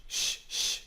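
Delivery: sh breathed softly, tongue forward; a light hissed sh; soft ich sound. Shown as a demonstration. Teacher demonstrates German ich sound. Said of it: "it's pronounced like in huge".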